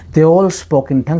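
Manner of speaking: slow, all lifted; slow stressed quote. Shown as a demonstration. Preacher repeats the verse slowly to the listeners. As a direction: repeat they all spoke in tongue slowly. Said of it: "ये सभी अन्य भाषा में बोले".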